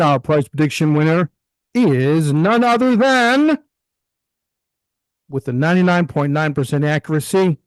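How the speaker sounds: big dramatic movie announcer; movie trailer voice. Shown as a demonstration. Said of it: "I'm gonna put on my movie voice".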